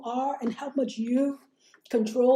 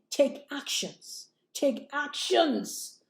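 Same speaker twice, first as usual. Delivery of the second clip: slow, softer, drawn-out command; quiet, deliberate emphasis; slow soft repeat; 3 semitones higher, 5 dB quieter, much slower than usual. Shown as a demonstration. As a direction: lean in and say it slowly. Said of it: "repeated slow soft command".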